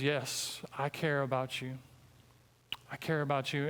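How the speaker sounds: God's gentle reassurance. Retold or imitated. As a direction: lean in and gently promise you care. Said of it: "And God says".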